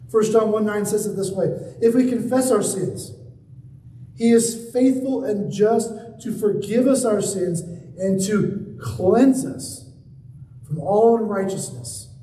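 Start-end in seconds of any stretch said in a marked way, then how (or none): 1.8-12.1 full-voiced, deliberate verse reading; proclaimed scripture. Real, not acted. Preacher declaring a Bible verse to the congregation, emphatic proclamation. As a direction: proclaim it firmly, stretching the key words.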